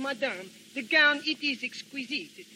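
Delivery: a light put-on French accent, trying it out. Shown as a demonstration. Man practicing his French accent for his friend, mild French accent. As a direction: rehearse the couturier's French lilt, lightly. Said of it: "how does it sound?".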